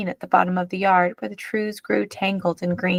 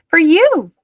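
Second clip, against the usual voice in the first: offering brightly; 9 semitones higher, 8 dB louder than usual. A narrator's reading. Pearl offering doll.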